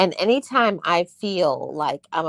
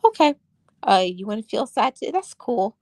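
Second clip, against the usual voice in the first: higher, faster, humouring herself like a lenient parent; indulgent self-talk; 4 semitones higher than usual. Retold or imitated. Talking to her sad self, indulgently permissive and quick. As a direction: grant yourself permission to wallow, breezy and brisk. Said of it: "I said".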